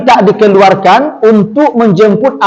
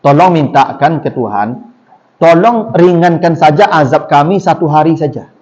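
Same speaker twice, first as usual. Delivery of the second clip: pleading sinner; 5 semitones lower than usual. Acted. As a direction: beg the angel humbly, voice sinking. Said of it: "Apa kata penduduk neraka itu?".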